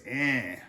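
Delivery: EN as one nasalized vowel; nasal vowel. Shown as a demonstration. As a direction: say en through the nose, N not fully sounded. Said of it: "It's spelled E N H".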